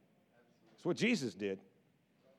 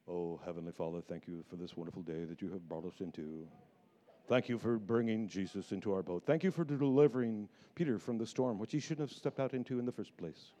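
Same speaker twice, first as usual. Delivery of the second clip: low, soft, overly solemn prayer; mock a stiff churchy prayer; hushed, ornate mock prayer; pious prayer voice; 10 semitones lower, 4 dB quieter than usual. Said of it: "I don't think they were like that".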